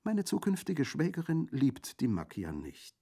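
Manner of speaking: high, light, smiling woman's voice. A narrator's reading. Colomba explaining about her future sister-in-law, smiling. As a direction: say it through a smile. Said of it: "erklärte Colomba lächelnd".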